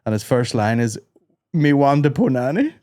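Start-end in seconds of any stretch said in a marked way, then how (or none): 1.5-2.7 lightly put-on Jamaican patois; fake Jamaican accent. Reading out an actor's dancehall lyric, light fake Jamaican accent. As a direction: quote it in a mild mock Jamaican accent. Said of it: "in a fake Jamaican accent".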